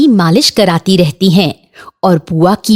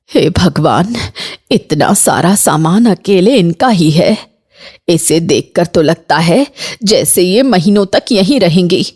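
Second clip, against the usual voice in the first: a touch of dismay, pitched down; dismayed mother-in-law. Acted. Mother-in-law aside about luggage.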